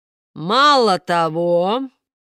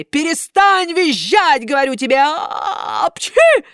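loud, higher angry yell into a sneeze; furious shout; 9 semitones higher, 6 dB louder than usual. A narrator's reading. Karabas yells at squealing Buratino, furious. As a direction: stamp and yell, then sneeze. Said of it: "затопал ногами".

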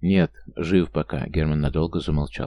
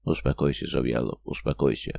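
lower, softer self-talk; calming himself; 6 semitones lower, 3 dB quieter than usual. A narrator's reading. Man walking the street calms himself, low and soft. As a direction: talk yourself down, softly and low. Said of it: "уговаривая себя".

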